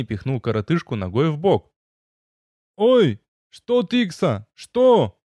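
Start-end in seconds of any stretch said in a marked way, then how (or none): 2.8-5.2 high, loud indignant wail; wailing gnome. A narrator's reading. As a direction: howl it out in outrage. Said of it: "возопил гном".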